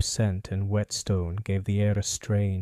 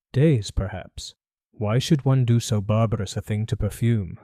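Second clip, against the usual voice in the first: put-on a faint French accent, bowing politely; light French accent; 2 semitones higher, 6 dB louder than usual. Perfumer greeting Holmes, faint French accent. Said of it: "faintest trace of a French accent".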